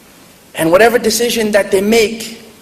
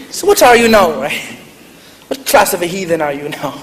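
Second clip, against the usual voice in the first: mock-stern Irish grandmother grilling him; Irish accent. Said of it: "she goes in her Irish accent".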